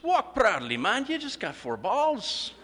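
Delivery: high, slow Scottish proclamation; proud Scottish cheer. Retold or imitated. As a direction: announce it grandly like a proud Scottish fan. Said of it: "the Scotsman stands up and says".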